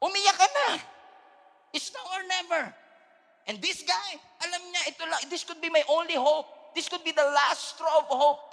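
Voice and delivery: high, loud preaching at full force; fiery Taglish sermon, rising to shouts. Acted. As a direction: preach it out, pushing the crowd.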